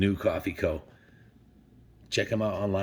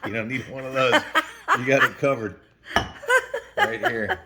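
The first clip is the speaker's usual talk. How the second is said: laughing; 4 dB louder than usual. Real, not acted. Laughing over forgetting Keurig.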